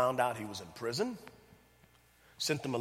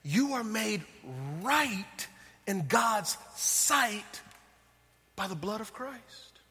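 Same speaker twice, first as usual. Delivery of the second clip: very slow, higher, every word stretched; emphatic proclamation; 6 semitones higher, much slower than usual. Shown as a demonstration. Preacher hammering the verse home to the congregation, very slow. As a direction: drive each word home to the crowd. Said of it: "Did y'all hear that?".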